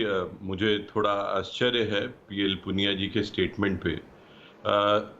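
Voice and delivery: echoing phone line. Real, not acted. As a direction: voice with a room echo. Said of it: "बहुत इको आ रहा है".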